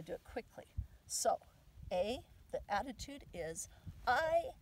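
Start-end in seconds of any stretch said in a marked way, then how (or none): 4.1-4.5 loud, high, drawn-out declaration; loud affirmation. Shown as a demonstration. Demonstrating an affirmation that must be said out loud, loud and proud. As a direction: proclaim it slowly at full voice. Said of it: "you have to say it loud".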